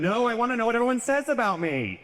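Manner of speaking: high playful voice; mock ghost self. Acted answer about afterlife.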